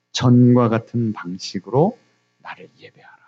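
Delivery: low, measured divine decree; solemnly low, fading at the end; God's command. Acted. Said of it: "하나님도 우리에게". (낮고 엄숙하게 명하는 말투)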